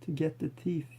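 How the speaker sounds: breath held while speaking; holding breath. Real, not acted. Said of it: "I'm actually holding my breath here".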